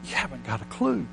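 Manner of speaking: a lightly voiced God, blunt and amused; God's voice. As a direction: talk down gently as God would. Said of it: "if he talked like this, he'd say".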